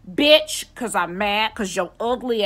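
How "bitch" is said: sudden loud, high-pitched "Bitch"; loud outburst. Real, not acted. Answering a catcaller with a loud, high-pitched blurt. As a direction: blurt it out, fed up.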